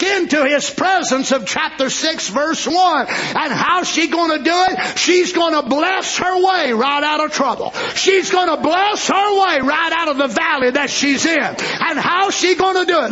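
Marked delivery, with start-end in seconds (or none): 3.1-13.1 rising, shouted sermon cadence; preacher whipping up the congregation; full-force preaching. Acted. Preacher to congregation, rousing shouted sermon.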